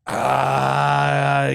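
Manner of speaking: long, loud drawn-out "uh"; uneasy groan. Real, not acted. Reacting to how they did it back then, uneasy groan. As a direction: groan out your discomfort. Reacting to gruesome childbirth scene.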